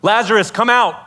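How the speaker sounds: projected, commanding call; mild acted shout. Jesus before the tomb summoning the dead man, restrained shout. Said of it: "and he shouts".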